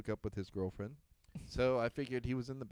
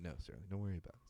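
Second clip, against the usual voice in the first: quick dismissal; 4 semitones lower, 11 dB quieter, much faster than usual. Retold or imitated. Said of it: "I'm like".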